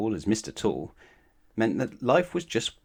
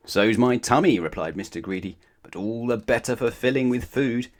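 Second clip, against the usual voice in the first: lightly voiced Mister Greedy; 2 semitones higher, 5 dB louder than usual.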